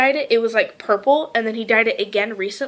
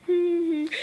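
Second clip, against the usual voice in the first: nervous hum; 7 semitones higher, 5 dB quieter than usual. Retold or imitated. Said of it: "nervously smiling".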